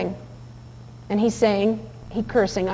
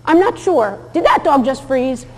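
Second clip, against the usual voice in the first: high, slow, doubtful wondering; mock-uncertain muttering to yourself; unsure viewer; 4 semitones higher than usual. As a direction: play the puzzled watcher second-guessing. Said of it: "you'd go".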